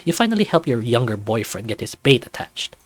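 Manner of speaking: even, clear storyteller voice; story narration. A narrator's reading. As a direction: paint the morning scene for the listener. Narrates the waiting.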